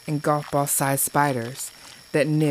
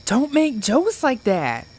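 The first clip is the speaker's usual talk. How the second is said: hissed through gritted teeth; 9 semitones higher, 3 dB louder than usual. A narrator's reading. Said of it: "Sam hissed through gritted teeth".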